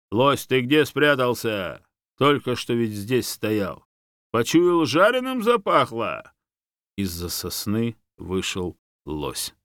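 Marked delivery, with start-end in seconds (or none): 0.1-6.3 loud, slow mocking call. A narrator's reading. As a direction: bear hollers for the hiding moose. Bear calls out for moose.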